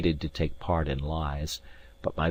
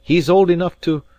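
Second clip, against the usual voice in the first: grim emphasis; 11 semitones higher, 9 dB louder than usual. Acted.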